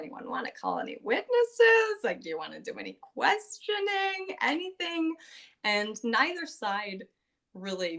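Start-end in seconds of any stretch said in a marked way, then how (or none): 0.0-5.1 judge voice. Retold or imitated. Judge voiced drawing out trial.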